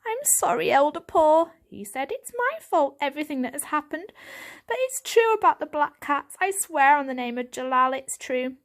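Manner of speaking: eager kitten voice; young kitten Varjak. Acted. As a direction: plead like a small boy.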